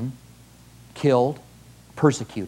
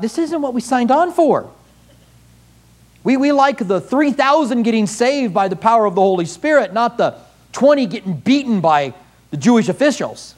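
lightly higher, a touch of disgruntled whining; mild complaint; 5 semitones higher than usual. Retold or imitated. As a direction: grumble that this isn't the deal. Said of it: "Maybe they thought".

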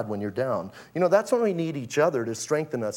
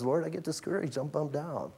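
honest confession; 10 dB quieter than usual. Retold or imitated. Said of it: "you need to be honest".

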